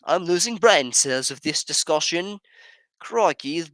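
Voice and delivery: high, loud snooty put-on voice; mock posh voice. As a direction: act like a fussy aristocrat. Mocking posh quote.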